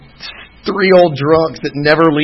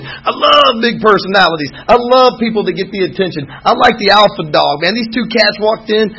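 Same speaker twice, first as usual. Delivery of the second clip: higher, louder, rising thrill as the story picks up; pumped-up storytelling, louder and higher; building excitement; 5 semitones higher, 3 dB louder than usual. Real, not acted. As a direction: let the energy climb as the party walks in. Storyteller builds the bar scene.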